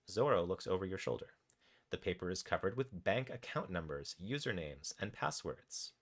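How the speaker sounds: measured, animated game narration; story narration. A narrator's reading. Narrator tells players what their raccoon does, story narration. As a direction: read the adventure out with deliberate pauses. Reads interactive story aloud.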